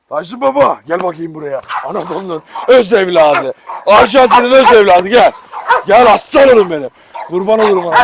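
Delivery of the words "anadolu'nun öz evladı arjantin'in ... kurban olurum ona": loud, proud cheering of the dog; excited praise. Real, not acted. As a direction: hype up the dog.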